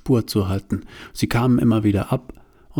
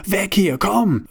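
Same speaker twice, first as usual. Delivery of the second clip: urgent shout; 9 semitones higher, slower than usual. Acted. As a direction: hurry her away in alarm. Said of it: "rief Bruno". (Bruno drängt Johanna hoch und laut zur Flucht)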